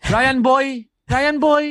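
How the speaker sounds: high, sing-song cheer for Ryan; playful sing-song farewell. Acted.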